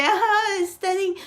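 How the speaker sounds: high-pitched mock gushing; mocking fake commenters with a high squeal; fake gushing compliment. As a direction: squeal the fake praise, overdoing it. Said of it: "putting yourself on that situation that you're going to be lying".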